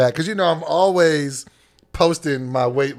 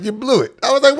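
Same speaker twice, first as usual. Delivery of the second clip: retold scolding; 7 semitones higher, 4 dB louder than usual. Gym guy lectures him.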